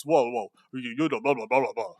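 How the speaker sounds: a hint of a whiny, crying Zelensky; mock him pleading in gibberish; lightly voiced sobbing complaint. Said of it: "cried in the Oval Office".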